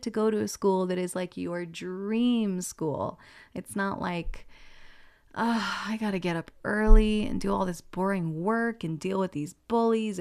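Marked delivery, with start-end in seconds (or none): 5.3-10.2 groaning, put-upon mock complaint; mock complaining. Voices a student dreading ordinary school.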